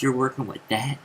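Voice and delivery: cocky jab, rising at the end; mocking taunt. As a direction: sneer at his muscles. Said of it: "that was my message".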